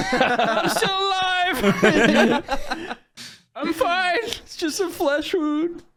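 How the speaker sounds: high, put-on comic voice; Monty Python impression. Wounded Monty Python knight refusing defeat, comic. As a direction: insist you're fine, stretched out and high. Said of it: "It's like Monty Python almost".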